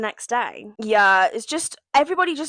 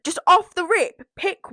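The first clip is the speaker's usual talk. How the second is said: mock host voice; 6 semitones higher, 5 dB louder, slower than usual. Quoting the host's instruction.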